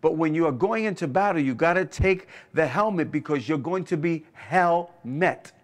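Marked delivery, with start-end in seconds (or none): 4.3-5.5 "hell met" split by a clear pause; punning emphasis. Real, not acted. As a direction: land on "hell", wait, then "met". Pun split before explaining it.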